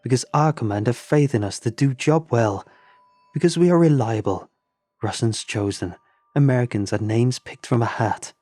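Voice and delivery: put-on Russian-accented indignant lecture; angry Russian accent. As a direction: Eleanor fuming at April's remark. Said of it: "fumes ... frustration".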